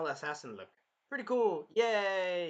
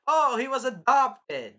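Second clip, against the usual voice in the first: loud, slow, high mocking gloat; hammed-up gloating; gloating laugh; 8 semitones higher, 12 dB louder, slower than usual. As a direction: crow over the king's bad luck. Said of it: "he's even laughing at the misfortune".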